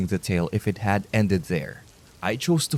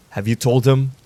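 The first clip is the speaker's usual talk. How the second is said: growled; 3 semitones higher, 5 dB louder than usual. Acted. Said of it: "the vigilante growled".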